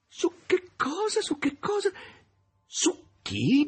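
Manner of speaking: high, slow, laughing the words out. A narrator's reading. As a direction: burst into booming laughter as you ask. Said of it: "e smise di ridere".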